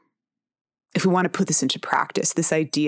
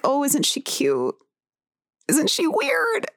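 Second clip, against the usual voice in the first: mock amused; 9 semitones higher, slower than usual. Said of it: "greeted with amusement".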